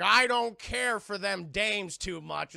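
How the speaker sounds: slow, drawling sailor voice; gruff old sailor. Retold or imitated. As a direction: grumble it like a crusty sailor. Voicing gruff Jack slowly.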